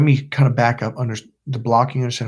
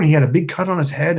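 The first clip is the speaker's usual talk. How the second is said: normal talking voice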